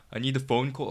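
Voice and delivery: put-on a faint stab at a Welsh accent; attempted Welsh accent. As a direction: try a Welsh accent and don't quite land it. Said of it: "trying to do Welsh accent".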